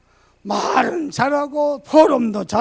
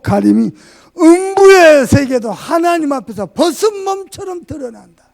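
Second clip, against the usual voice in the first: forceful, louder preaching read; loud scripture reading; 3 semitones lower, 6 dB louder than usual. Acted. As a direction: proclaim the verse loud. (힘차게 성경 낭독)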